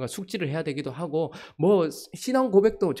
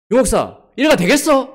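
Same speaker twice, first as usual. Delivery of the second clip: loud, high furious rebuke of a senior pastor; angry scolding; 9 semitones higher, 12 dB louder than usual. Retold or imitated. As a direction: bark the question out in outrage, much higher and louder.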